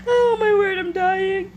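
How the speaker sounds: tearful with amusement; dying of laughter. Real, not acted. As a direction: sigh it out, worn out from laughter.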